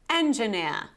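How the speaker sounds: "engineer" built on "engine", no final R; British pronunciation. Shown as a demonstration. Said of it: "How to memorize this pronunciation".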